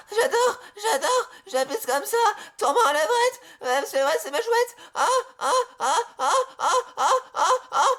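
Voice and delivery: high cry-laughing squeals; shrill laughing squeals. Acted. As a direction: squeal and giggle like an excited girl. High shrieking laughing play voice.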